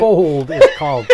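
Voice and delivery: loud, cracking up mid-sentence; reading aloud through real laughter; laughing. Real, not acted. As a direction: laugh hard through the words.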